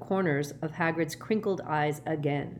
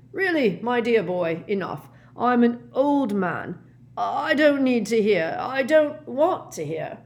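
high, loud, pleading protest; distressed old professor; 6 semitones higher, 6 dB louder than usual. A narrator's reading. Old man refuses to hear more, distressed. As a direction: plead to be spared, leaning on words. Slughorn begs Harry to stop.

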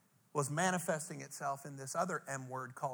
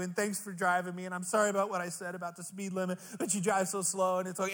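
lightly played, higher morphine-happy gushing; drugged gratitude ramble; 4 semitones higher than usual. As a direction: mildly act out being high and thankful. High on morphine, thanking everyone.

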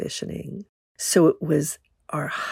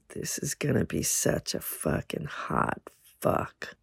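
hushed lower whisper, no voice; whispered thought; 5 semitones lower, 10 dB quieter than usual. Retold or imitated. Woman whispering her excited thought in the motel room. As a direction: breathe it like a private thrill. Inner thought before sex.

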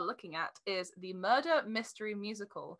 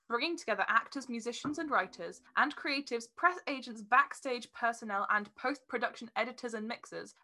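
reading aloud; 3 dB louder than usual. Shown as a demonstration. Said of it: "what it says on the website is".

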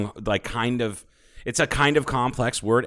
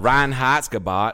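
Reinheitsgebot drawled slow and loud, redneck style; southern redneck drawl; 3 semitones higher, 3 dB louder, slower than usual. Shown as a demonstration. Asked by his friend, slow loud southern redneck drawl. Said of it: "say that word with a southern redneck draw".

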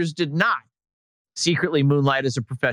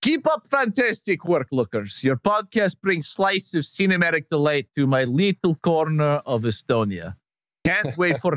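lightly put-on Estonian accent, laughing through it; bad Estonian accent. Host reading an Estonian fan's email in a mock Estonian accent. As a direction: read the fan letter in a half-hearted Estonian accent. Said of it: "with my worst Estonian accent".

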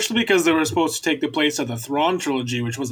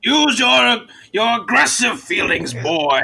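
slow, menacing villain voice; cold rasping evil emperor; 6 semitones higher, 3 dB louder, slower than usual. Retold or imitated. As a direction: rasp it out like a Sith lord. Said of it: "I'll be like".

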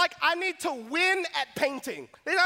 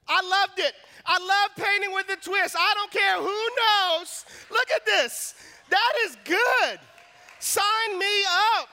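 excited confession; 5 semitones higher, 3 dB louder than usual. Real, not acted. Confesses he loved painting.

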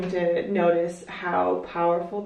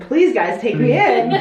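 mock begging; 4 semitones higher, 6 dB louder, slower than usual. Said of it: "and I said".

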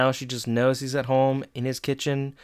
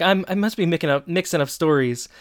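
quick, slightly higher nervous excuse; 4 semitones higher than usual. Retold or imitated. Dad covers for mixing up stories, mildly nervous. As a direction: imitate a touch of flustered nerves. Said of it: "he's nervously, and he's like".

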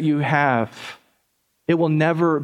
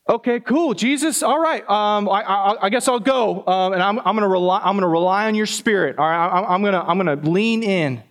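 higher, eager but unsure voice, trailing into resolve; hesitant disciple; 5 semitones higher than usual. Retold or imitated. Disciple answering Jesus, higher and hesitantly agreeing. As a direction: talk yourself into going, a bit nervously.

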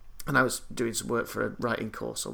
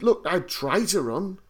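higher, slow spelled-out argument; emphatic mock protest; 5 semitones higher, slower than usual. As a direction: spell it out, hammering each point. Retells his emphatic protest to chef.

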